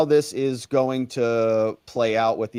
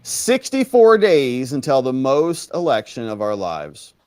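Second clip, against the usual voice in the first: mock Kamala imitation; 4 dB louder than usual. Host imitating Kamala slowly.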